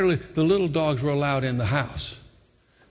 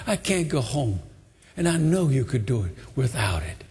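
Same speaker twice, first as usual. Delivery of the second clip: begging. Acted. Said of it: "begs him".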